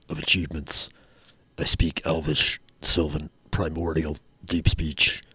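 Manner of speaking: lightly voiced orb, measured and halting; orb's voice. Orb speaking in your mind, lightly voiced and measured. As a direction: recite your functions as an orb, with deliberate pauses. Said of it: "you hear the voice of the orb in your mind".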